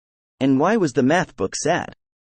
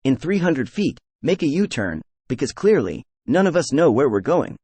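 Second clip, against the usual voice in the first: GPS voice. Acted. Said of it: "impression of a G P S navigation system on a bad day".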